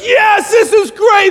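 high, loud mock cheering; hammed-up elated shout; excited congregation. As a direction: play a thrilled crowd, stretching the words. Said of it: "and they're excited".

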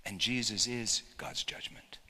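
hushed whisper after the storm. Acted. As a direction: drop to a secret whisper. Hushed aside after the outburst.

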